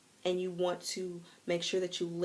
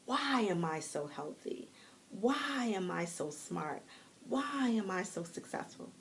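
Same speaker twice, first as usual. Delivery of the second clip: WHY stretched long, slow questioning; slow, wondering WHY on every question; drawn-out WHY. Shown as a demonstration. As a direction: linger on the word WHY at each start. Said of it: "you don't have to say it like that".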